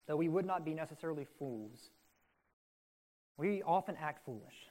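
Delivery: sincere, subdued public prayer. Real, not acted. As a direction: pray aloud on behalf of the congregation, evenly paced. Leads a closing prayer.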